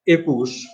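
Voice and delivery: একুশ with pure "e", e-kush; teacher's clear একুশ as "ekush"; closed-vowel pronunciation. Shown as a demonstration. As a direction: model একুশ starting on closed এ. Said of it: "তাহলে সেটা হচ্ছে".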